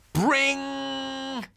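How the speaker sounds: spoken doorbell noise; doorbell ring. A narrator's reading. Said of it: "It was only the doorbell".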